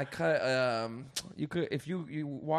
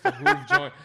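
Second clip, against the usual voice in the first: laughing; 11 dB louder than usual. Real, not acted. Laughs mid-word.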